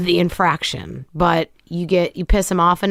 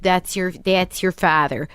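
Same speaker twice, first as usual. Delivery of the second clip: put-on mother's Midwestern accent; slower than usual. Excusing dad to her child, in a mock Midwestern accent. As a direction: imitate mom's Minnesota-style accent. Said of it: "that's how she talks too".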